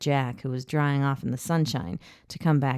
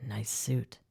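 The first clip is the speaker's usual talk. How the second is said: casual; 5 semitones lower, 9 dB quieter than usual. Acted. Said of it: "he said casually".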